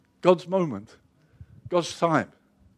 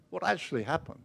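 echoed hush; 11 dB quieter than usual. Acted. Question repeated, dropped to near hush.

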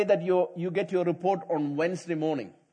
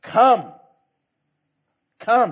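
inviting call; 5 semitones higher, 9 dB louder than usual. Retold or imitated. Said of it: "Jesus said, an open invitation".

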